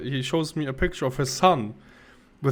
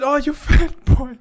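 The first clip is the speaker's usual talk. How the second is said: quoting the man; 11 semitones higher, 7 dB louder than usual. Retold or imitated. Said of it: "he just said".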